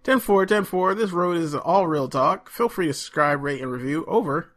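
radio chatter, call and response; trucker CB radio talk. Pretend. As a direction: play a trucker on the CB. CB radio banter continues.

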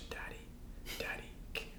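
put-on high whispered little-girl plea; sweetly wheedling for chocolate; imitating daughter. Dad imitates daughter begging sweetly for chocolate.

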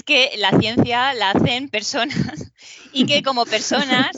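real chuckle breaking into the words; talking through light laughter; amused, laughing. Real, not acted. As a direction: let a laugh slip in while talking. Amused aside, listeners laugh along.

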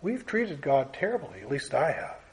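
hushed personal admission; quiet confession. Real, not acted. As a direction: confess it almost to yourself. Preacher confessing after a long pause.

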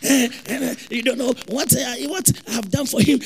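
hammed-up heartbroken wailing; sing-song fake sobs; mock crying. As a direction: imitate a jilted lover sobbing through a complaint. Mimics a crying jilted person.

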